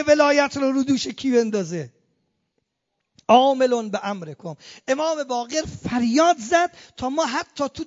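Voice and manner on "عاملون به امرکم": عاملون به امرکم declaimed louder, falling, عاملون stressed; emphatic proclamation. Acted. Preacher declaims the phrase to the crowd, louder.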